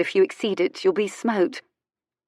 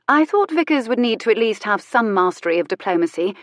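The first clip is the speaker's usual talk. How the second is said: tart; 4 semitones higher, 3 dB louder than usual. Acted. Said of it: "she said tartly after a moment".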